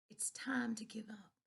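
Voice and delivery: whispered, gentle; real soft voice. A narrator's reading. Preacher gently telling his daughter to stop, whispered. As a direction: breathe it to her softly. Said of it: "said in a real soft voice".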